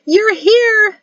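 very high, loud, overjoyed yell; excited yell. A narrator's reading. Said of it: "she yelled uncharacteristically".

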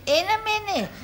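mocking echo. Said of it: "In a minute's all you say".

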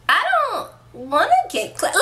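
laughing high while admitting fear. Real, not acted. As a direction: giggle out the confession.

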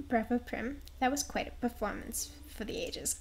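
put-on muddled Brooklyn-British accent, lightly done; a hint of theatrical Brooklish. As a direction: congratulate a friend in a wobbly Brooklyn-British accent. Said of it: "I don't know why she's Brooklish".

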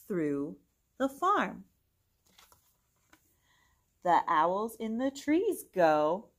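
bright, singsong storybook read; gentle storytime reading voice; reading to children. Acted. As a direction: read it aloud to little kids. Reads picture book to children.

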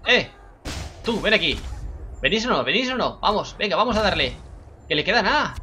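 loud, high rallying call. Real, not acted. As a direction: shout to rally the team. Calling teammates to attack.

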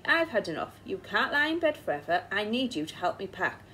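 firm scolding, slowing at the end; wife ordering him out of bed; stern. Acted. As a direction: lay down the law. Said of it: "she said sternly".

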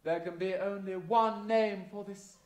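grand camp dame voice; panto dame. Acted. Panto dame character monologue.

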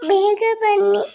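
high, tearful call of ಬೇಗ ಬನ್ನಿ at normal pace; tearful plea. Acted. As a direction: beg them to come back. Child calls parents.

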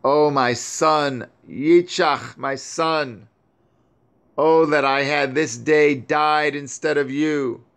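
grieving mother. Acted. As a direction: mourn him aloud, voice lifted high. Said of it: "And she said".

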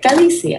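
Galicia said lightly with a rise at the end; Galicia modelled again. Shown as a demonstration. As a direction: repeat Galicia as ka-LEE-see-a, rising at the end. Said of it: "once you hear it".

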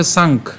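"সাংখ" stopped on the kh, no vowel after it; pronunciation demo. Shown as a demonstration. Teacher shows the first half, isolated "সাংখ". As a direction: end "সাংখ" on a bare aspirated kh. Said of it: "তাহলে উচ্চারণটা কেমন হচ্ছে".

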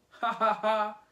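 loud, high mock laugh; storybook dad's hearty ha-ha; acted belly laugh. A narrator's reading. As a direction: laugh it out in separate syllables.

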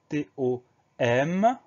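letters spelled out slowly, one by one; slow dictation, each letter separate; slow spelling. Shown as a demonstration. Teacher spelling the first syllable for learners, slow spelling.

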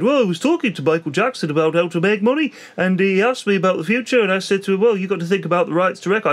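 lightly put-on, uncertain British accent; a rough stab at a famous singer's accent. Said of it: "don't know what accent this is".

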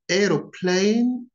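"Aeroplane" said the British way, a clear AIR-oh-plane; British pronunciation. Shown as a demonstration. Teacher showing learners the British accent. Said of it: "notice the differences between them".

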